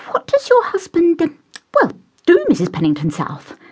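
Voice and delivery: put-on timid young man voice. Tristram voiced.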